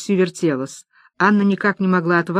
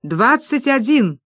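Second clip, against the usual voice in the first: slow, ceremonious двадцать один; solemn announcement; 4 semitones higher, slower than usual. Acted. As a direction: announce the winning number grandly. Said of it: "Крупье торжественно объявил".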